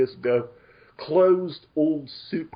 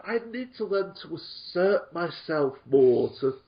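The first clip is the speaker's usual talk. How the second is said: playfully feigned timidity, stammering at the start; tongue-in-cheek meekness with halting starts; mock shyness; 4 semitones higher, faster than usual. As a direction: pretend to struggle to speak up. Plays along with teasing about shyness.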